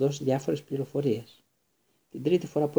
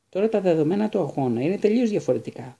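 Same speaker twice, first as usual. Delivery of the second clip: raised voice, higher and louder; urgent team captain shout; 5 semitones higher, 4 dB louder than usual. A narrator's reading. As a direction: call it out in alarm. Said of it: "φώναξε".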